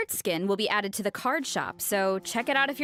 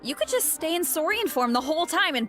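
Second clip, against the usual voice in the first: high, bright-eyed gush about the game; getting carried away with glee; excited; 6 semitones higher than usual. Real, not acted. Excited about Saurian form.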